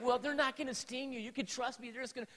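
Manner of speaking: retold dad trying to talk the kids round; mildly agitated pleading. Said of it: "getting more agitated".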